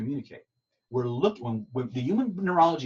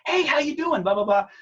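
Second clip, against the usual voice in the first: much higher and louder, imitating a cheerful girlfriend; girlfriend's voice; 14 semitones higher, 7 dB louder than usual. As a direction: put on a bright girlfriend greeting, pitched way up. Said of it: "She goes".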